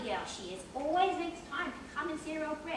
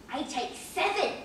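giggling; 5 semitones higher, 5 dB louder than usual. Acted. Giggling about pills.

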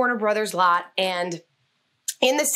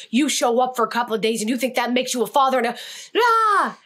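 acted fuming outburst; faster than usual. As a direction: hurl it at him, then lose the words with a cry. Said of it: "now I'm, like, fuming".

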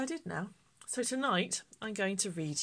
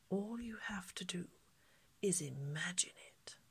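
mysterious whisper; 3 semitones higher, 3 dB quieter than usual. Acted. Shopkeeper revealing the magic hat to Millie, mysterious whisper.

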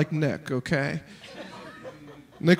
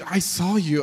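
mock deadpan delivery; 3 dB quieter than usual. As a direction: say it with no expression at all. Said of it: "deadpan tone".

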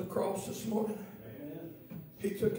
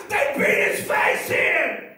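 breathy repeat; 6 semitones higher, 12 dB louder, slower than usual. Acted.

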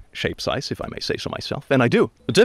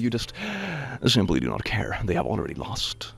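deadpan; 8 dB quieter than usual. Acted. Deadpan drop, soft and low.

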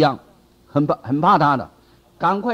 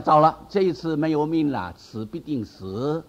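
despairing; 3 dB quieter than usual. Retold or imitated. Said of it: "他心里想".

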